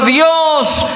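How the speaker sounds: high, drawn-out cry to God; anguished cry. Acted. Sinner crying to God over his own heart, anguished. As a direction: cry out in broken-hearted despair, stretching the words. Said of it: "entonces lloro, entonces digo".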